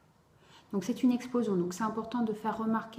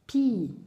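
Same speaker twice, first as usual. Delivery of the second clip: "pi" alone, loud and held; "pi" set apart by a pause, clearly projected; isolated first syllable; 7 dB louder than usual. Shown as a demonstration. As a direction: sound out "pi" as one separate syllable. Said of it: "on redécompose. Alors, première syllabe".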